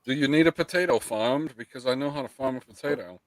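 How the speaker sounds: hint of a put-on Irish voice; mock Irishman. Streamer mocking co-host's job interview, mock Irish. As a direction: lightly mimic an Irishman. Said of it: "He's like".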